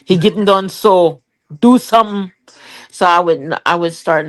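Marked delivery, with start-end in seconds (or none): 0.0-2.3 imitating husband. To her friends, mimicking her husband begging her to feed the baby, mock-whiny. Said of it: "he said".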